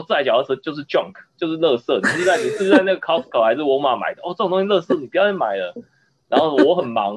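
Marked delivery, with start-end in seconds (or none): 0.0-5.7 imitated grumpy rant, pitched up; lightly acted contemptuous scolding; mock scolding. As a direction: play the owner scoffing at the junk bike. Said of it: "然后他就骂说".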